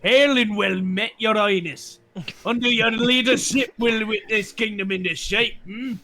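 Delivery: Scottish. Pretend. Noble greeting the new queen, light Scottish. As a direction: roll it out like a Highland lord.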